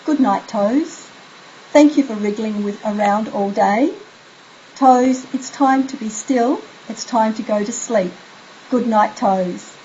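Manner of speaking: soothing bedtime ritual. Shown as a demonstration. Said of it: "You ask them to say".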